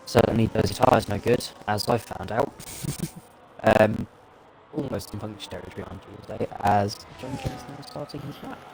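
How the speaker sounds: crackling USB mic audio; crackly mic. Real, not acted. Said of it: "your mic is crackling a little bit".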